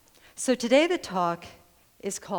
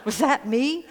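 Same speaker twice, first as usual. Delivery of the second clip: higher, louder parrot voice with a rising question; parrot asking; 6 semitones higher, 5 dB louder than usual. Retold or imitated. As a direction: ask it like an amazed parrot. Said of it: "the parrot went".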